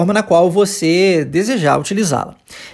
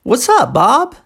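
"What's up, Bob" high on "up", dipping and rising on "Bob"; repeat-after-me model; 4 semitones higher, slower than usual. Shown as a demonstration. Teacher saying it for the student to repeat, rising intonation. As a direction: model "What's up, Bob" with a clear final lift. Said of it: "vamos repetir".

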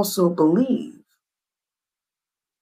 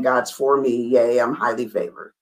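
mock Christian jargon; 6 semitones lower than usual. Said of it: "that's Christian jargon".

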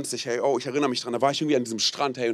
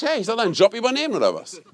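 indignant, laughing comeback; laughing mock retort; 6 semitones higher than usual. Pastor jokingly protests to the wedding couple, laughing. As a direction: laugh through a teasing protest. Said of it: "Und ich bin so ehrlich".

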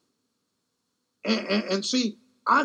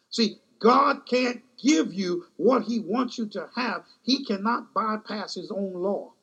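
preaching; 3 semitones higher than usual. Real, not acted. Preacher pressing his flock on seed and harvest, preaching with fervor. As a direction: preach it, letting the congregation feel each line. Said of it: "I'm gonna go to preaching now".

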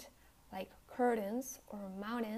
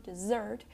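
"dessert" stressed on its second syllable; 4 dB louder than usual. Shown as a demonstration. Teacher demonstrating word stress, "dessert" stressed on second syllable. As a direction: lean on the end of "dessert". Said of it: "has its stress on the second syllable".

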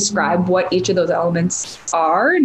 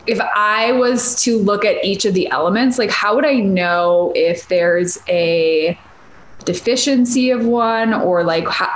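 usual speaking voice

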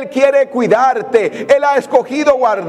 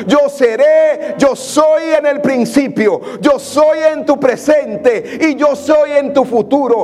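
cada "Yo soy" más alto y lento, casi cantado; predicación a toda fuerza; 2 semitones higher than usual. Acted. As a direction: proclama con fuerza creciente, lento. (el predicador proclama la voz de Dios, a pleno pulmón)

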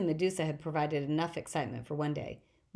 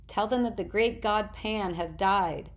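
mysterious voice crying out; 3 semitones higher, 4 dB louder, slower than usual. Acted. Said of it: "voice crying out from the shore".

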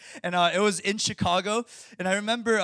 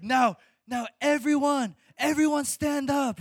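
lightly imitated preacher, slow and higher; preacher's instruction; 6 semitones higher, slower than usual. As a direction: address the whole room, drawn out. Voices preacher directing the crowd.

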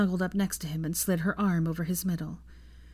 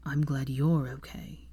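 lower, slow and sincere; sincerely; 4 semitones lower, slower than usual. Acted. Draco answering Hermione, slow sincere reply. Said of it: "he replied sincerely".

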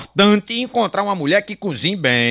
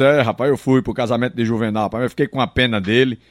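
low, gloomy friend voice; 10 semitones lower, faster than usual. Acted. Friend answers in another voice.

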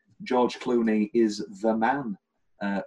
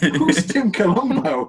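louder, higher, drawn-out mock question; imitating Tammy; 7 semitones higher, 6 dB louder, slower than usual. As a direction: act out her question, slow and raised. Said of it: "And she goes".

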